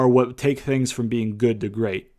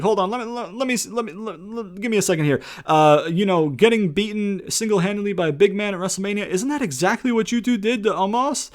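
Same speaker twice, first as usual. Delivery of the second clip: smug retort; 7 semitones higher than usual. Retold or imitated. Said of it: "Elias is like".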